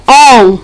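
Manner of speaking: "on" set apart as the stressed syllable; single out "on" firmly, held a little; stressed syllable alone. Shown as a demonstration. Teacher pointing out the tonic syllable, stressed syllable alone. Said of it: "sílaba tônica".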